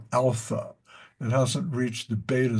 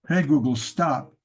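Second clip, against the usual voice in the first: command to a smart speaker; 4 dB louder than usual. Shown as a demonstration. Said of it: "Like that".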